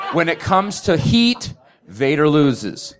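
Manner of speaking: laughing through the punchline; laughing verdict. Real, not acted. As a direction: crack up while delivering it. Dramatic debate verdict, laughing.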